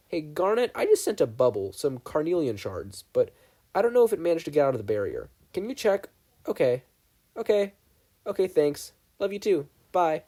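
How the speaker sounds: a hint of a cheerful boy calling home; lightly voiced teen on phone. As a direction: chat casually to a friend on the phone. Stephen's phone call voiced.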